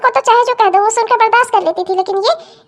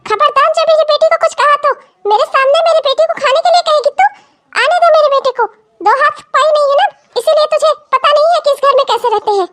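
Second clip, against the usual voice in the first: indignant, slightly raised threatening voice; angry scolding; 3 semitones higher than usual. Acted. Mother-in-law rebukes younger daughter-in-law for her daughter, angry. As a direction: tear into her with mild stage anger.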